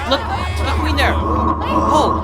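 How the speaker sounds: high, loud cry of alarm; alarmed shout. Acted. Laertes seeing the queen fall, alarmed shout. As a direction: yell out in panic.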